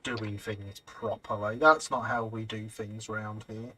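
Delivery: put-on low, slow grumbling old-timer voice; grumpy old-timer. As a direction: drawl it like a disapproving local foreman. Mock grumbling about proper work.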